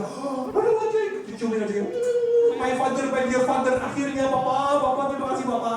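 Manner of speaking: squealing high with joy; overjoyed son. Retold or imitated. Son hugging the dog after finding treasure, high gleeful gushing. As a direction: gush like he just got rich.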